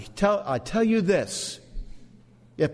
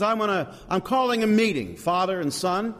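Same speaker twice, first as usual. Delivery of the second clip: lightly acted, higher-pitched meeting caller; Holy Spirit; 4 semitones higher than usual. Preacher voicing the Spirit calling a council, lightly acted. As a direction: raise the pitch to summon the others. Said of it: "The Spirit says".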